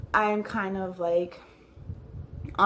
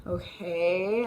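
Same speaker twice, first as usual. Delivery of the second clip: blank stare okay. Retold or imitated. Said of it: "still looking at him like".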